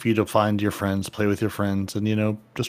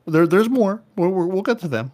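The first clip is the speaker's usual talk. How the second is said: excited; 8 semitones higher, 4 dB louder than usual. Real, not acted. Excited aside.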